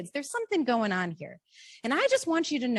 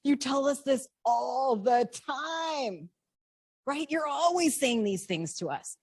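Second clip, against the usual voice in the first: put-on bored kid; 3 semitones higher, slower than usual. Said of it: "My kids are gonna be like".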